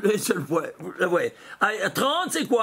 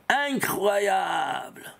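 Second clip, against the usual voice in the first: slow, breathless whisper of wonder; drawn-out amazed whisper; awed whisper; 3 semitones lower, much slower than usual. Real, not acted. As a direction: hush it as if revealing a secret. Marvelling at the hidden word.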